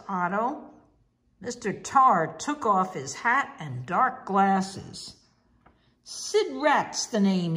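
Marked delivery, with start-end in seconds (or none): 6.0-7.5 a mild, understated snarl; a hint of a villain's snarl. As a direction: growl the name a little, lightly menacing. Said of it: "he snarled".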